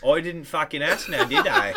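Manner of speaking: put-on British accent with a laugh at the end; mock British accent. Friend snaps back at the Wales objection, mock British accent.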